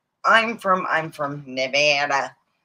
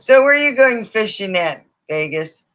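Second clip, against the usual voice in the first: teasing friends; 5 semitones higher, 7 dB louder than usual. Retold or imitated. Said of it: "my friends used to joke".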